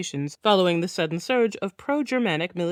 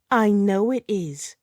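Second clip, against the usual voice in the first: slow, louder defiant snarl; 4 dB louder, slower than usual. Acted. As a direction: spit it out at her captor. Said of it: "she snarls".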